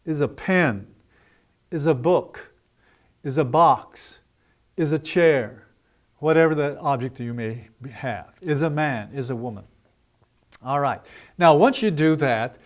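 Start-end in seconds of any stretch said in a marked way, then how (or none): 0.1-5.7 "is a" linked and light, stress on "pen", "book", "box", "chair"; unbroken "is a" into a falling final word; natural rhythm, stressed noun. Shown as a demonstration. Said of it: "Make it as natural as possible". 8.4-9.6 "is a" light, "man" and "woman" stressed; linked phrase, falling on the noun; natural rhythm, stressed noun. Shown as a demonstration. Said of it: "Make it as natural as possible".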